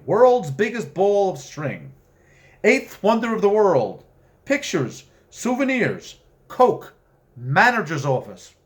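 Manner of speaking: reading the trailer sign, hammed up and loud; carnival barker sign. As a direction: sell it like a roadside attraction barker. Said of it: "sign reading".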